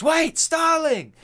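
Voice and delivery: high, drawn-out loud call; imitated urgent high-pitched shout. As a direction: call after someone walking away, stretching it out. Villain calls her back as she leaves.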